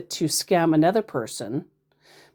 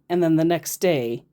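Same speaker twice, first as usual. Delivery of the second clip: ordinary talk, nothing marked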